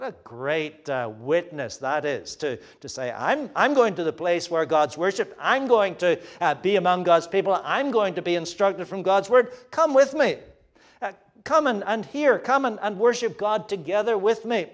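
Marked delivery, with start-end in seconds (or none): 3.1-14.7 eager invitation. Acted. Preacher voicing converts urging others to come worship, eager and raised. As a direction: call your friends along, you can't wait to go.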